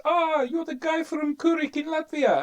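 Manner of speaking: high, bright-eyed barmaid imitation. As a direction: greet him as a regular, high and cheerful. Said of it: "she says".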